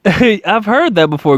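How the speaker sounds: slow amused repeat through a chuckle; a knowing laugh, stretched out. Real, not acted. Host laughing at a familiar answer, slowly amused.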